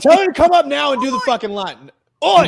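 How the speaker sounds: high rough cockney call; British accent. Acted. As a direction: bark it like a London geezer. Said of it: "getting shit from the Brit downstairs".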